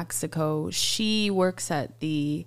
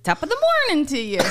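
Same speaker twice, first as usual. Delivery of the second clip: quick, higher, hammed-up Irish greeting; Irish accent with head tip; 7 semitones higher, 4 dB louder, much faster than usual. Shown as a demonstration. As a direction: tip an invisible hat as you say it. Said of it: "I feel like I have to go like this".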